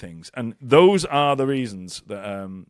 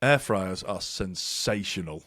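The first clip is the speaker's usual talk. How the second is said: laughing; 5 semitones lower, 4 dB quieter, slower than usual. Real, not acted. Big reveal, laughing through it.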